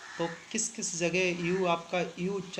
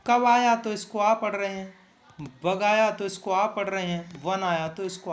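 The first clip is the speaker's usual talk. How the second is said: emphatic drilling; 6 dB louder than usual. Shown as a demonstration. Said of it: "teacher drilling examples".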